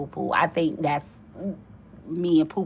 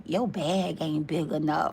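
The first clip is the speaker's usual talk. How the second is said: softer, laughing brush-off; laughing dismissal; 3 semitones lower, 5 dB quieter than usual. Retold or imitated. She brushes off the suitor, softer and laughing. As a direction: tease him while laughing quietly.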